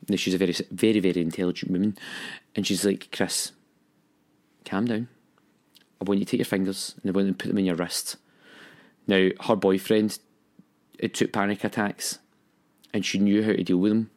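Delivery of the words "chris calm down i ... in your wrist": gently imitated soothing instructions; lightly voiced, measured reassurance; calm, soft friend. Friend talking him through a panic attack, calm and soft. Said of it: "talking to me so calmly and so softly".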